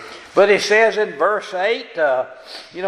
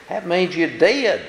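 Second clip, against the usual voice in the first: ordinary delivery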